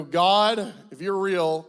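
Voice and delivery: mock prayer. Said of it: "let me tell you how the prayer went".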